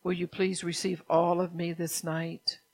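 God asking his people to receive him, pleading. Acted. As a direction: beg them gently but firmly to receive. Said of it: "see, he pleads with you".

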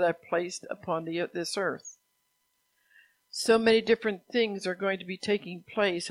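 measured, emphatic proclamation; prophetic proclamation. Acted. Preacher passes on God's promise to lead, proclaiming. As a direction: read it out as a message from God. Reads out God's words to congregation.

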